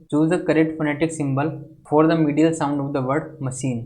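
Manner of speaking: slow, careful reading of an exam question; slow question dictation. Acted. Teacher dictating a quiz question to students, slow and measured. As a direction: read the English question out very slowly for the class.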